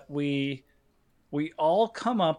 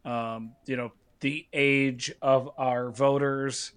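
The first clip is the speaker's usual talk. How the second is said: cigarette in mouth. Real, not acted. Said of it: "I'm gonna put a cigarette in my mouth".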